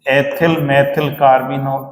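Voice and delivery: ethyl methyl carbinol drawn out very slowly; slow dictation. Shown as a demonstration. Teacher dictating a compound name to students, very slowly. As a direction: stretch every syllable for the class. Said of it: "ऐसे ही लिख दे".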